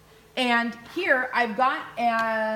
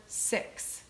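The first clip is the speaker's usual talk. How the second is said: counting under breath; 9 dB quieter than usual. Shown as a demonstration.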